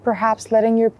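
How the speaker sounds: calm guided body scan with long pauses; unhurried mindfulness guide, even and measured; guided meditation. Acted. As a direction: lead them gently through a check-in, leaving space between phrases.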